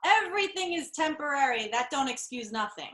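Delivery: movie quote in a put-on Moonstruck accent; lightly acted Moonstruck accent, starting high and falling. Host giving the speller a sentence, in Moonstruck accent. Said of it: "With that accent".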